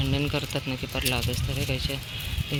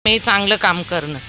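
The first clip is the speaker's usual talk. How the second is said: ordinary talk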